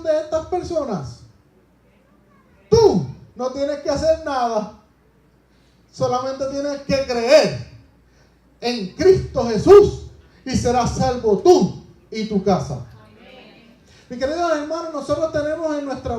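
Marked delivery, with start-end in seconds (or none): 2.7-12.8 preaching declaration. Acted. Pablo answers the jailer.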